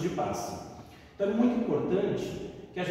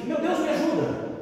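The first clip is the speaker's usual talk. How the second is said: desperate cry for help; 11 semitones higher than usual. Retold or imitated. Hunter cries to God as the bear leaps, high panicked shout. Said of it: "instintivamente gritou assim".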